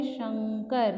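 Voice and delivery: शंकर said with a ng sound before the k; nasal before k. Shown as a demonstration. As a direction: say शंकर as shang-kar, ng then k. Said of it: "तो हम क्या बोलेंगे?". (शंकर में क से पहले ङ की ध्वनि)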